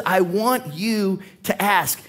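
"I want you to ask." said slowly, leaning on "want"; slow emphatic. Retold or imitated. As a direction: press "want" and slow the whole line down. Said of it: "He's emphasizing it".

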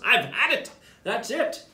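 you've run out of patience; Mama snapping at the giggling monkeys; fed-up mama. Acted.

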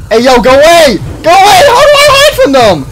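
high, loud yelps with a laugh; half laughing, half terrified; panicked laughing scream. Real, not acted. Animatronics attacking again.

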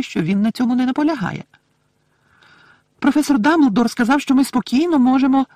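high, loud elf voice; solemn little elf explaining in a high pipe; earnest, high-pitched servant elf; Dobby the house-elf, solemn. Acted.

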